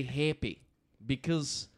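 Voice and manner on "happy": "happy" as an Australian would say it; light imitated Australian vowel; Australian accent. Shown as a demonstration. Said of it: "how an Australian would say it".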